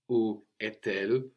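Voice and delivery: où est-elle with the T linking into elle; liaison pronunciation. Shown as a demonstration. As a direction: link est and elle with a T sound. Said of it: "we can avoid this liaison of".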